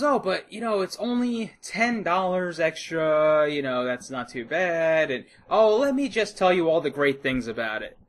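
mock the pushy rep; imitating the sales rep. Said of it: "So she goes".

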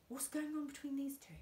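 put-on boy whispering to his dad in church; whispered. A narrator's reading. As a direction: lean in and keep it secret. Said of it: "the boy whispered".

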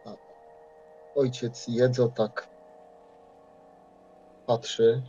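normal talking voice

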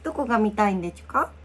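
put-on childish lisping toddler voice; baby talk. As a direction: coo like a toddler.

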